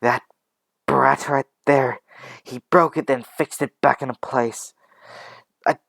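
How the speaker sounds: heated, emphatic blame; outraged insistence. Acted. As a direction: insist angrily to people who doubt it. She insists to doubting caregivers.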